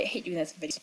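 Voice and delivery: quick apologetic whisper. Real, not acted. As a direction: whisper it as an aside. Apologetic aside while leaving.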